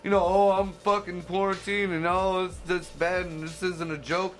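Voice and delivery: high, loud ranting; angry rant. Real, not acted. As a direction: tear into him, outraged. Ranting at Cuomo.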